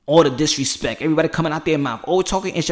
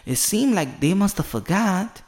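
with your chest; 3 semitones higher, slower than usual. Shown as a demonstration. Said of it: "You gotta say it with your chest".

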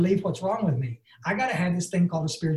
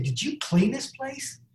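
put-on old lady asking; 7 semitones higher, slower than usual. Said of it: "she looked around the door and she said".

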